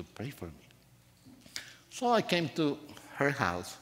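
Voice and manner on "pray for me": weak sick voice. Retold or imitated. Sick lady asks for prayer.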